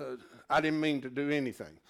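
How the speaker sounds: real embarrassed laugh through the words; sheepish real laughter; laughing sheepishly. Real, not acted. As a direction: laugh it off after the question. Embarrassed after wife's question.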